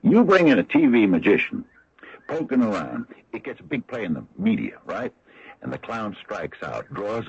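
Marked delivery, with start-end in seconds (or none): 0.0-3.1 loud, stammering outburst; angry protest. Real, not acted. Sheriff protesting to Decker about bringing in a magician, loud and angry. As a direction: push back hard, tripping over the first words.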